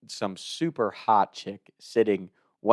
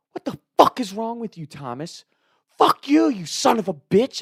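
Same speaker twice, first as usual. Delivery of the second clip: Beef; 12 semitones higher than usual. Retold or imitated. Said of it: "how much he's cussing me out".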